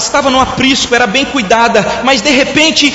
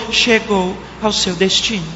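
soft, low, sweet navigation voice; a soft recorded GPS announcer voice; 3 semitones lower, 6 dB quieter than usual. Retold or imitated. Preacher imitates the car GPS arriving, sweet soft voice. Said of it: "com aquela voz doce dizendo".

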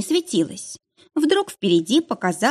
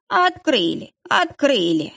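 eager, quick joyful blurt; blurting it out happily; 5 semitones higher, slower than usual. A narrator's reading. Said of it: "радостно выпалил Иван Иванович". (радостно выпалил)

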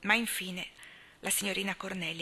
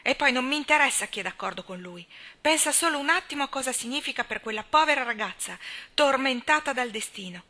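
put-on louder, higher, alarmed old lady; indignant old spinster; 5 semitones higher, 7 dB louder than usual. A narrator's reading. Miss Cornelia confronting Anna about the operation, loud and alarmed. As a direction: burst in scandalised and loud.

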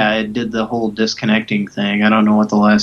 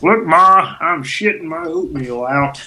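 put-on high, giddy child parody; mock kid voice; 6 semitones higher than usual. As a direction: call out to Ma like a kid.

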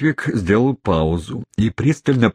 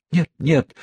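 lisped; 9 semitones higher than usual. Acted. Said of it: "пролепетала незамужняя тётушка".

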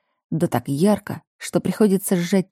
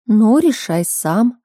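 aloof, slow mother's reply; detached; 5 semitones higher, 4 dB louder, much slower than usual. Acted. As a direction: say it coolly, uninvolved. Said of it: "отстранённо отвечает мама".

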